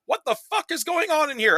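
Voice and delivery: put-on high, brash old-lady squawk; imitating old lady. Mimicking the old lady in the bathroom scene, high squawk. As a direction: blurt it out like a baffled old lady. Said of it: "her one line for the movie is".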